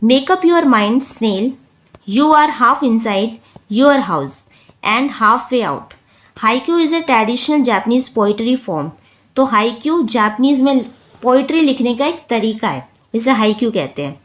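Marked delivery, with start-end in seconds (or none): 0.0-8.9 slow, deliberate reading of a haiku; teacher reading a haiku to students; slow poem reading. Shown as a demonstration. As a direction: read each line slowly, letting it sink in. Reads haiku slowly aloud.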